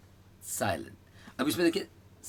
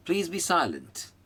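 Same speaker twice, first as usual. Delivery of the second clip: slow model phrase; 6 semitones higher, much slower than usual. Shown as a demonstration. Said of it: "सी, silent.".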